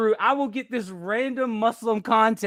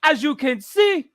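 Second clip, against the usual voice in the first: measured, put-on presenter voice; UK video guy; 2 semitones higher, 3 dB louder than usual. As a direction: announce it deliberately as the video guy. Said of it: "I think he's from the U K".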